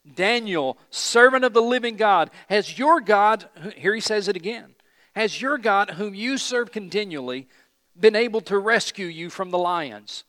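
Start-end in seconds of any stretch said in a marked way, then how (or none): 0.1-3.5 high, loud cry across a distance; anguished call. Acted. King calling to Daniel at the lions' den, anguished. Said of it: "in an anguished voice". 5.1-10.2 raised, loud, urgent questioning; anguished call. Acted. King asking Daniel whether God rescued him, anguished. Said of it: "in an anguished voice".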